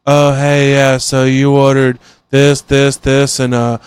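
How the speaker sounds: slow, absent-minded read of the order; mildly imitated spaced-out drive-thru worker; vacant cashier. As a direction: rattle off the order like nobody's home. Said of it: "like, just like that".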